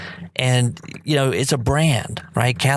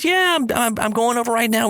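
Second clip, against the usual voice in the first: excited; 9 semitones higher than usual. Retold or imitated. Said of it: "She says".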